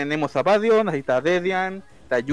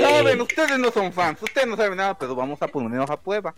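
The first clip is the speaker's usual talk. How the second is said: smug superfan. Acted. Superfan persona continues.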